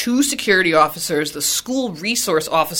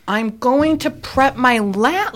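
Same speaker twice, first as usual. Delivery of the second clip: curt answer; 6 semitones higher, slower than usual. Retold or imitated. Teacher answering curtly.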